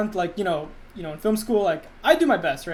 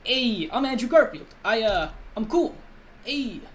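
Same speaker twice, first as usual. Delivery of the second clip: slow, drawn-out laid-back cool guy; Andrew Garfield; slower than usual. Shown as a demonstration. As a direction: loose imitation of a cool young actor, slowed down. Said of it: "I can't really do Andrew Garfield".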